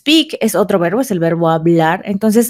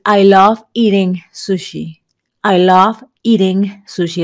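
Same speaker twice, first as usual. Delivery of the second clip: slow model sentence; slower than usual. Shown as a demonstration. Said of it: "También podrías decir".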